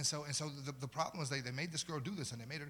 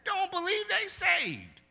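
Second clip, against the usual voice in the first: "Don't believe they saved" pushed much higher and strained on "they"; higher repeat; 12 dB louder, slower than usual. Acted. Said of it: "repeated higher".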